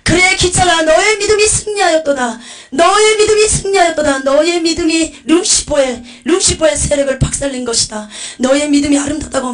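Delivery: high, loud, exultant proclamation; ringing, elated commendation from on high; overjoyed divine voice. Retold or imitated. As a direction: proclaim triumphant praise as the voice of Jesus. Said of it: "너무나 기쁜 음성으로".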